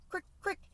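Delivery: high, soft chirping crick, crick; imitated cricket chirp. Cat imitating the cricket's chirp, high and soft. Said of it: "going crick".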